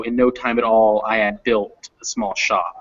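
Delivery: "at all" fused and the H of "had" slurred; slurred fast speech. Shown as a demonstration. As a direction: link "at all" and soften "had" to "'ad". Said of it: "you might even slur that H".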